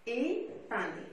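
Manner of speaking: "Épingle" in two spoken beats, a short pause after the first; "Épingle" broken up for counting syllables; split into syllables. Shown as a demonstration. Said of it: "il y a deux syllabes".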